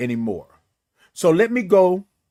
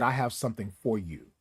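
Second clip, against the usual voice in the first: soft voice of God; 6 semitones lower, 12 dB quieter, faster than usual. Retold or imitated. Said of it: "because God said".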